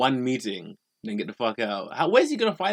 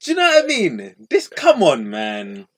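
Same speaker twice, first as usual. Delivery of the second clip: much higher, louder indignant outburst; outraged; 7 semitones higher, 10 dB louder than usual. Real, not acted. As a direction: let the outrage burst out high and loud. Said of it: "outraged at the boss".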